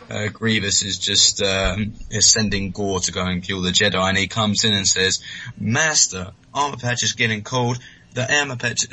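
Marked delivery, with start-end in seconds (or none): 5.6-8.8 lightly American accent on the droid line; slipping into an American accent unintentionally; a touch of American accent; slipped American accent. Shown as a demonstration. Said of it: "I'm going to American accent now".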